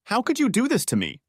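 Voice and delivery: high whiny plea; wife whining at her husband, high. A narrator's reading. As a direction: whine it out, wounded. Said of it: "she whined".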